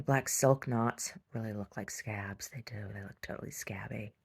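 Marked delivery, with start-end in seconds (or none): 1.3-4.1 hushed, creepy-delighted whisper. Real, not acted. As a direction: whisper it like a gross secret. Whispering about scabby knots.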